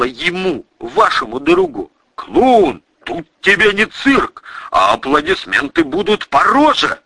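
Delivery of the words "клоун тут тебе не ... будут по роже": зарычал. A narrator's reading. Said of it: "зарычал Владимир".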